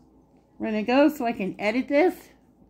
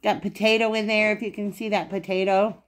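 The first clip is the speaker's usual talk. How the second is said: talking through a mouthful of food; words around a bite; mouth full. Real, not acted. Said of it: "Got a mouthful".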